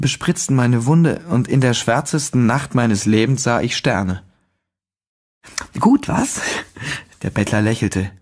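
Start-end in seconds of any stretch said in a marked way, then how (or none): 5.8-8.1 put-on much higher, fast, jovial old beggar; cheery beggar. A narrator's reading. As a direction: push the drink on him with a grin. Beggar urges another sip.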